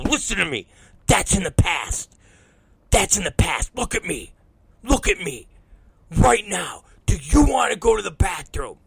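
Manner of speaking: put-on firm, spaced-out orders to a child; insistent parental command. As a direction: make the kid focus, phrase by phrase. Dad demands child's attention.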